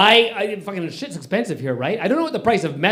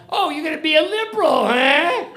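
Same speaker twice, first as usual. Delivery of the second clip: mock-taunting Albertan, pitched higher; mocking Albertan jab; 10 semitones higher, 3 dB louder than usual. Comic retells locals teasing him about Canada, higher mocking taunt. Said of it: "it's not what they said".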